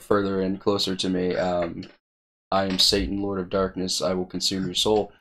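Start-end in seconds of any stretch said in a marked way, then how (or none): 2.5-5.1 attempted deep Satan voice, only a touch lower; mock menacing devil voice into the toy; best deep voice. Teen recording a Barbie as Satan, mock deep voice. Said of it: "in my best deep voice".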